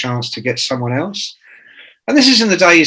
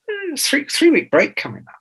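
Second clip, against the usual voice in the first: mock hesitation; 13 semitones higher than usual. Talking himself out of resigning.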